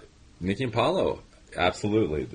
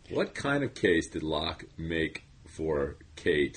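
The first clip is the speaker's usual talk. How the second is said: slow stilted podcast read; stiff scripted read; 5 dB quieter, slower than usual. Acted. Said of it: "Wow, you were just".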